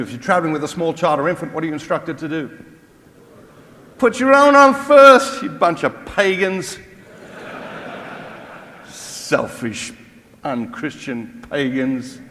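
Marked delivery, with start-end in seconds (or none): 4.0-12.2 mock indignation. Preacher mocking a judgmental churchgoer, slow mock scolding. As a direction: scold the congregation in jest.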